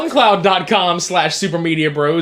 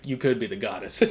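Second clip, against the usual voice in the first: barbarian; 8 semitones lower, 12 dB quieter than usual. Retold or imitated. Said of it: "he's like".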